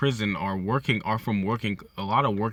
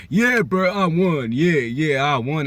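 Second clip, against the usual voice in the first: loud, higher-pitched premature celebrating; mock victory cheer; 6 semitones higher, 7 dB louder, slower than usual. Goku boasting after a brief knockout, mock triumphant. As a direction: crow like you've already won.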